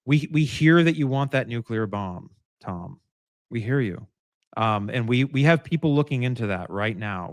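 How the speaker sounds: steady, soothing negotiator voice; lightly voiced hostage negotiator, calm and reassuring. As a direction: talk him down gently. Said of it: "being really, really calm about it".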